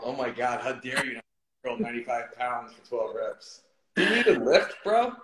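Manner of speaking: mock-indignant gym bro taunt.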